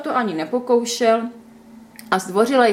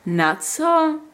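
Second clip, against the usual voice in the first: horrified squeak; 7 semitones higher than usual. A narrator's reading. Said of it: "kvikla Květa zděšeně".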